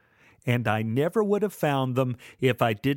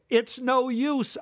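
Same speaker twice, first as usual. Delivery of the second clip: slow, high taunt; 11 semitones higher, slower than usual. Acted. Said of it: "I said".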